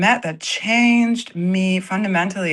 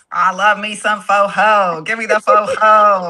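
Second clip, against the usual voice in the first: put-on Black American accent; 5 dB louder than usual. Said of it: "you just said that, like, so black".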